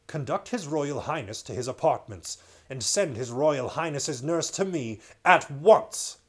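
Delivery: a hint of a cold command; lightly voiced icy order. King Miraz coldly ordering a gentleman in waiting. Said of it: "said in a cold voice".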